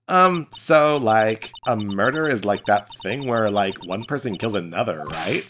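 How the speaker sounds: lightly voiced ditzy Valley Girl; Valley Girl accent. Student greeting the lawyer in a Valley Girl accent. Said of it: "another Valley Girl accent".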